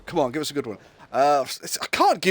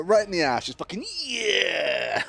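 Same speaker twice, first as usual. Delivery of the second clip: mock moaning. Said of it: "And it's like".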